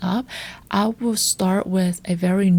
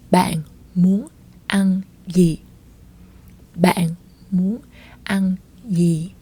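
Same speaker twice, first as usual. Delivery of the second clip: slowed demo; slower than usual. Shown as a demonstration. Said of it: "what do you wanna eat?".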